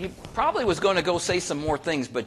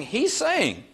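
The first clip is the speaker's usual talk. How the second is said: normal talking voice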